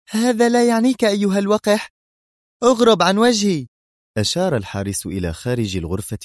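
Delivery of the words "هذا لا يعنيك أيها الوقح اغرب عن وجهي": much higher, louder contemptuous anger; angrily. A narrator's reading. Sonia dismissing the insolent guard, high angry shout. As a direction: throw him out with rage. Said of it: "وهي تقول بغضب".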